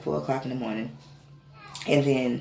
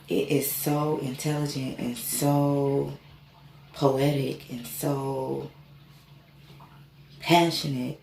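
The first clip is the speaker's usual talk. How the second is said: slow talking; slower than usual. Retold or imitated. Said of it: "I'm slowing down in my talking".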